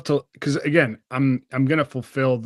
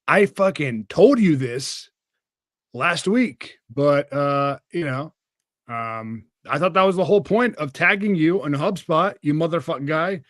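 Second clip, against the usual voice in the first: mock angry telling-off; 4 semitones higher, slower than usual. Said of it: "I'm being a little bit more of a dick about it".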